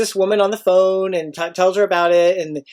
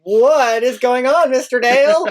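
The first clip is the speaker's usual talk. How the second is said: put-on puzzled kids; 5 semitones higher than usual. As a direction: ask like confused young students. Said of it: "the kids are all looking at me like".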